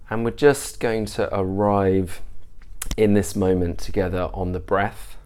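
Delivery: measured meditation guide, long pauses between phrases; guided meditation. Real, not acted. Teacher leading listeners through a mindfulness practice, guided meditation. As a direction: ease listeners into stillness, unhurried and even.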